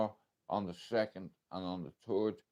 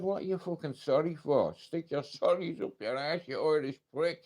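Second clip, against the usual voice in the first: retold angry woman; 6 semitones higher than usual. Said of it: "She said".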